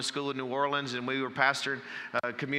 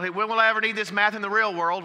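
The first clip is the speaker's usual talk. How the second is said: fast, higher, louder mock student whine; kid complaining; 7 semitones higher, 6 dB louder, faster than usual. Schoolkid protesting math homework, mock whine, quick and higher. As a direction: lightly play the bored schoolkid.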